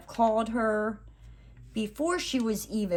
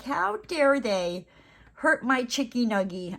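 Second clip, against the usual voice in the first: mock outrage; 4 semitones higher than usual. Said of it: "I'm like".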